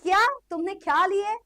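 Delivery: incredulous scoffing, key words stretched out; mock cool student. Teacher mimics cool people questioning chemistry's use, mock incredulous. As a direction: play the too-cool kid dismissing school subjects. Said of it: "कभी ये वाले लोग तुमसे मिले".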